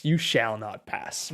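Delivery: slow, drawn-out wizard command; lightly voiced Gandalf, words stretched; slow Gandalf quote. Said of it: "Lord of the Rings". (cita lenta de Gandalf, apenas actuada)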